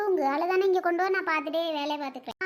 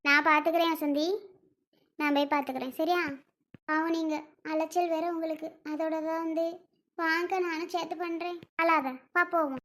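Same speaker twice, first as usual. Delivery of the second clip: gentle consoling; 2 semitones lower, 5 dB quieter than usual. Acted. Friend offers crying woman help with chores, gentle consoling. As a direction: soothe her quietly and offer to help.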